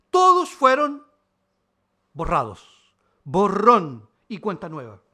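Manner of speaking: loud, ringing proclamation; preaching shout. Real, not acted. Pastor proclaiming to the church that all sins are erased, loudly. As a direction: shout the good news out to the congregation.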